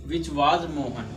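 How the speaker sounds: which was Mohan spelled out very slowly, word by word; slow teacher dictation of which was Mohan. Shown as a demonstration. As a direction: read it out slowly so students can write. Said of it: "helping verb subject से पहले आएगी".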